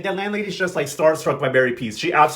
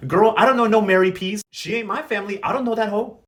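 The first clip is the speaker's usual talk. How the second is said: sassy mock disowning, pitched higher; hater attitude; 5 semitones higher than usual. Fabiana disowns her aunt to her cousin, hater attitude. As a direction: imitate a dismissive hater, voice up. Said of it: "this hater ass Fabiana was like".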